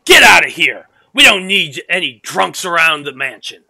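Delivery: put-on loud angry shout at a drunk; guard yelling. Guard shouting at the drunk, loud and angry. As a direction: bark him away from the mansion.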